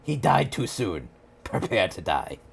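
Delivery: lightly put-on movie avenger; mock-solemn revenge speech; Inigo Montoya. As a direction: quote the avenging swordsman with measured phrases.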